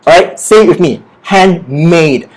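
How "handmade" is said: "handmade" with the second half, MADE, stressed and falling; slow model word, weight on MADE. Shown as a demonstration. Teacher modelling handmade for students to repeat, stress on MADE. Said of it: "The stress is on made".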